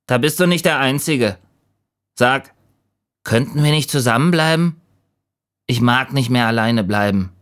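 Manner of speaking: lonely leaf. A narrator's reading. Lonely leaf asks the raven to stay, high pleading voice. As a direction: plead gently in a lifted voice.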